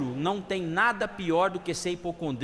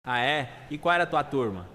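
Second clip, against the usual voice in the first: mildly chummy question in a lowered pitch; relaxed, lower-voiced friendly curiosity; friendly, smiling; 4 semitones lower than usual. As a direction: ask with a light friendly smile. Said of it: "com um sorriso simpático pergunta".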